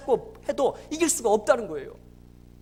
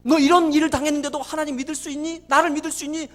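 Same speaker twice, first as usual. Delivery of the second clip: lightly voiced God, louder and insistent; God's pressing question; 3 semitones higher, 6 dB louder than usual. God testing the father's trust, insistent retold questioning. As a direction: press the question home with force. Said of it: "하나님 물어보더라는 거예요".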